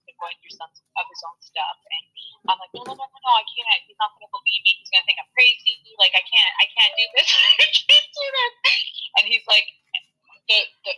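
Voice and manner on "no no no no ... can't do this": panicked refusal. Retold or imitated. Panicked refusal to the spirit, retold.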